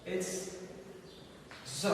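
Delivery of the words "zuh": Z said as a buzzed "zzuh"; voiced Z sound. Shown as a demonstration. Teacher isolating the sound heard, Z as "zzuh". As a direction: buzz Z as a sound, not the letter name. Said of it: "you feel vibration".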